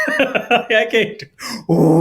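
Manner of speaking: cracking up, barely getting words out; loud real laughter. Real, not acted. Cracking up after hearing the singer imitated, loud laugh. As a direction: laugh loudly, words slowed.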